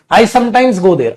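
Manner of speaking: very slow, each word spaced for copying; slow dictation. Shown as a demonstration. Teacher dictating to class, slow and spaced. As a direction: dictate it slowly so students can write. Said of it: "ये देखो".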